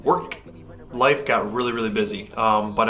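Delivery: echoey hotel room sound; big hall echo. Real, not acted. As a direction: voice bouncing off bare walls. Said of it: "sorry about the echoiness in here".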